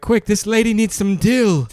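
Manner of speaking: high, drawn-out melodrama; hammed-up paramedic urgency; mock emergency plea. Co-host plays responder at the crash, mock urgent plea.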